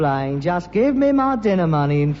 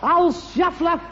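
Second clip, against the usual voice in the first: high, scornful jab at the horse; mock insult; 8 semitones higher, slower than usual. Son sneering at the old horse.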